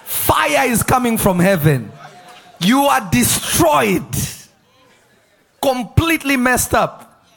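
Jonah yelling judgment at the city, dragged out; hammed-up prophet of doom bellowing; mock doom shout. Preacher as Jonah warning sinners, shouting doom.

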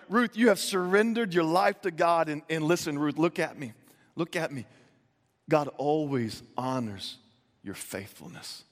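softening, slowing and dropping away to a hush; tender reassurance. Retold or imitated. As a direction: lean in close and reassure her gently. Boaz voiced comforting Ruth.

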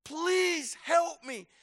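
a panicked dad shouting for help; a father bursting in to beg the crowd to find his missing son; pleading shout. Pretend. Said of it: "he would start shouting and say".

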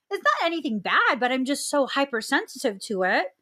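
ordinary talk

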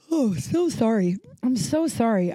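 speaking through a yawn. Real, not acted. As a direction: let a yawn stretch the words. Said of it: "I'm, like, yawning a bunch".

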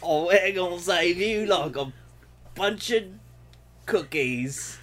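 mock a strange voice; odd put-on voice. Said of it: "What's happening to your voice?".

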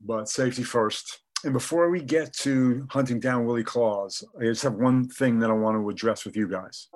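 thin, tinny video-call sound; tinny Zoom audio. Real, not acted. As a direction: voice coming through a laptop Zoom call. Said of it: "apologize in advance for the tinny sound of my voice".

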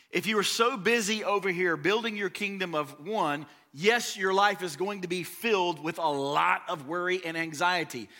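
rising, sung-out preaching over music; preaching build. Acted. Pastor lifting the congregation with sung-out preaching. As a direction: carry the congregation up with the melody.

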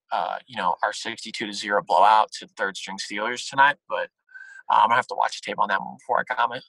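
a hint of a tired coach at the press conference; Hugh Jackson impression. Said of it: "I might do Hugh Jackson".

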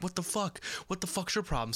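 lightly acted, indignant challenge; mock indignant outburst. Imitating the landscaper cursed at by a mailman, mildly indignant.

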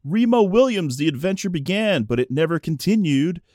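showing off to the room; loud, obnoxious. Retold or imitated. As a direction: mildly imitate an obnoxious moviegoer. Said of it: "sorta loud, sort of obnox-, obnoxious".

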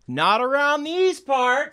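high, slow folksy politician voice; debating politician. Acted. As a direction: dodge the question like a smooth candidate. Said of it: "ask me a question as if I'm in a debate".

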